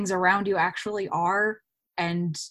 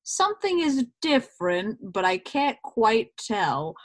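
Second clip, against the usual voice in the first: puzzled suspicion; 3 semitones higher than usual. Retold or imitated. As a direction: voice a listener who senses something off. Voices an uneasy, puzzled listener.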